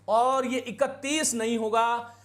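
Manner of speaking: इकतीस said slowly, teaching tone; teacher explaining इकतीस slowly; slow explanation. Shown as a demonstration. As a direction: slowly lay out इकतीस for students. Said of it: "इकतीस शुद्ध रूप होगा".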